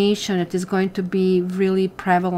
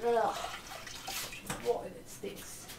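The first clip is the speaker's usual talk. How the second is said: disgusted murmur; 3 semitones higher, 14 dB quieter, slower than usual. Real, not acted. Cleaning up dog mess.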